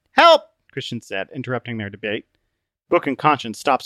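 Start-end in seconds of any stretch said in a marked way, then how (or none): 0.1-0.4 high, loud acted call; cry for help. Christian interrupting their debate from the ooze, crying for help. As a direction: shout it out to break up the bickering.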